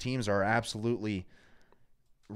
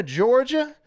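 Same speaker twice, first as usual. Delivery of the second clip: put-on half Southern accent; 4 semitones higher than usual. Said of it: "that little half accent I got there".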